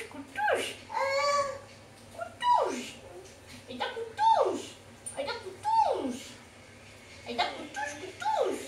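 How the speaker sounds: high sing-song call to her dog; sing-song pet name. Real, not acted. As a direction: croon the pet's name up high.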